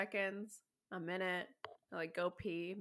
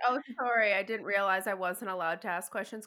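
snarky mock apology; 5 dB louder than usual. Quoting snarky reply to seller.

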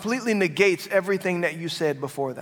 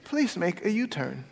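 put-on calm British accent; 5 dB quieter than usual. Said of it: "the British accent on there 'cause it just seems more calming and peaceful".

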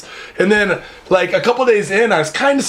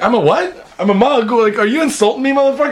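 mock offended retort; 5 semitones higher than usual. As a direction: act insulted and snap back. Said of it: "And I'm like".

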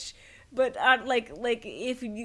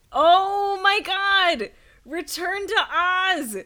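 excited squeal; 8 semitones higher, 8 dB louder, much slower than usual. Real, not acted. Thrilled at the movie pick.

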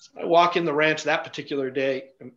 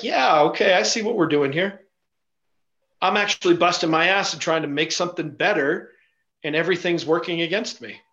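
fed-up sarcasm; 2 semitones higher than usual. Retold or imitated. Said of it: "you're just like".

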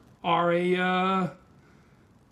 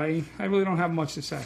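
numb mouth after dental work; numb from the dentist; 3 semitones lower, faster than usual. Real, not acted. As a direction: talk through a numb jaw. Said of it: "I'm still numb from the dentist".

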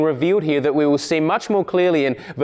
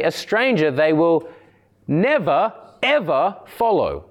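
"never" and "ever" each set apart and stressed; emphatic "never, ever". Shown as a demonstration. Preacher giving a better translation, emphatic stress on "never, ever". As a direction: pause before "never", then land hard on "ever". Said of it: "it's much more emphatic".

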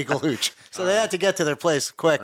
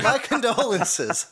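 mock solemn; 5 semitones higher, slower than usual. Joking sympathy to grieving friend.

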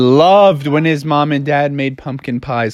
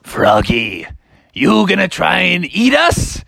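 sinister pumpkins; 3 semitones higher than usual. Acted. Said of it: "the pumpkins were like".

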